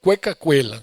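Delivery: mangled Portuguese-flavoured Spanish, cueca cuela said kwɛka kwelɐ; clumsy Brazilian Spanish accent; bad Spanish. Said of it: "Meu espanhol era muito ruim".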